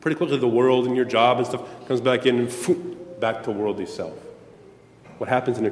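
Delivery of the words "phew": quick mouthed whoosh; imitated whoosh. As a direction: blow a short rush of air. Mimes the world rushing back in.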